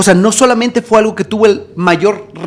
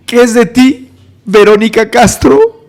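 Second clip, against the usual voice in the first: slightly raised, drawn-out question; measured question; 3 semitones higher, 4 dB louder, slower than usual. Retold or imitated. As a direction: ask it intently, holding back the outburst. First take of retold escalating question.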